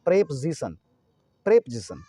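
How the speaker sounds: प्रेपोजिशन as prep-zi-san; preposition with z. Shown as a demonstration. Teacher stressing the Urdu nukta sound, प्रेपोजिशन as prep-zisan. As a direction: buzz the z in प्रेपोजिशन after prep. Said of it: "तो जेड वाला रहेगा जीसन".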